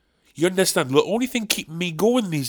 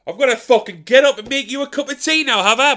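jokey grumble; 7 semitones higher, 7 dB louder than usual. Retold or imitated. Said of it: "And you go".

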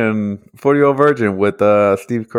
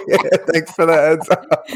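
higher, sarcastic thanks; 6 semitones higher than usual. Retold or imitated. Retelling his reply to the vendor, sarcastic. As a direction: toss off a mock grateful reply. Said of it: "I was like".

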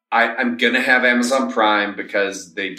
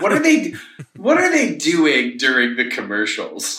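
laughing; 3 semitones higher than usual. Real, not acted. Laughing question about the stream.

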